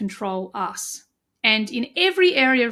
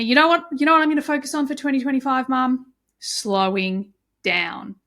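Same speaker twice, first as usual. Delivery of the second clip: eager son; 3 semitones higher, 3 dB louder than usual. Retold or imitated. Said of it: "he said to me".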